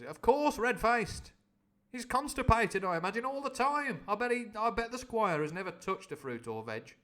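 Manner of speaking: high loud gossiping voice; Grinty Toothless. Acted. Grinty Toothless mocking the Squire, high and loud. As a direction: gossip gleefully about the Squire.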